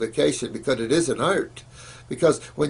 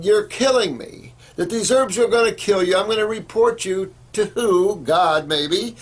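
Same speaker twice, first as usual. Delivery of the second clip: mock screaming mother; 4 semitones higher than usual. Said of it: "called in screaming and hollering at Jennifer".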